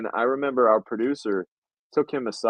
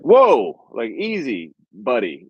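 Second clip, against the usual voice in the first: nice calm-down; 5 dB louder, much slower than usual. Retold or imitated. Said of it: "says in a nice way".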